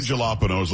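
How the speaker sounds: jalapenos with an English J sound; mock mispronunciation. Shown as a demonstration. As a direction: say jalapenos as juh-LOP-uh-noze. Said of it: "let's not be stupid".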